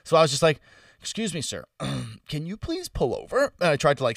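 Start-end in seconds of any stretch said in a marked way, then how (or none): 1.0-3.5 soft, polite, carefully articulated request; careful, clear request. Retold or imitated. Drunk passenger asking the driver to pull over, carefully clear. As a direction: imitate a drunk trying hard to sound clear. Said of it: "say that as clearly as I can".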